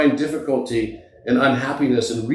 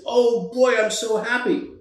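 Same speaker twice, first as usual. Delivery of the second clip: put-on high, thrilled child's voice; overjoyed little boy; 8 semitones higher than usual. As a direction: squeal with delight like a five-year-old. Optimistic boy jumps up and down.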